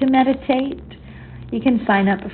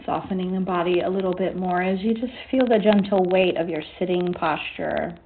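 guided meditation. Acted. Leads a meditation session.

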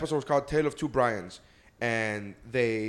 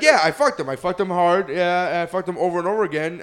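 louder, higher smug boast; smug dog voice; 4 semitones higher, 5 dB louder than usual. Retold or imitated. Retelling the dog boasting to Stewie, in a smug voice. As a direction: brag it with relish. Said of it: "he was like".

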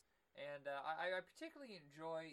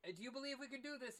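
much higher, fast mock dad voice; movie dad; 10 semitones higher, faster than usual. Fantasy dad in the trailer asking his son, mock higher voice. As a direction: ask it like a hammed-up movie father. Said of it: "and he's like".

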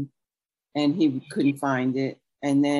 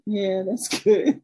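laughing, slow and unimpressed; 4 semitones higher, slower than usual. Retold or imitated. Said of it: "sitting there like".

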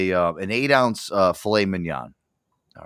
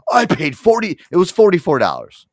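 mock outburst, higher and louder; imitated angry dad; 8 semitones higher, 8 dB louder than usual. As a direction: ham up dad blowing his top. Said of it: "my dad fucking flew off the handle".

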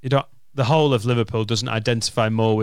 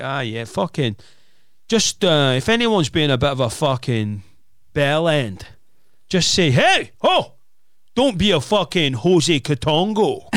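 put-on Glaswegian accent. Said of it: "he did it in that voice".

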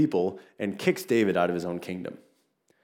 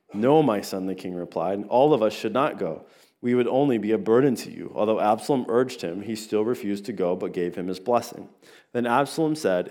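scripture reading; 2 semitones lower than usual. Acted. Pastor reading Second Samuel to the church, calm scripture read. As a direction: read the passage plainly and calmly.

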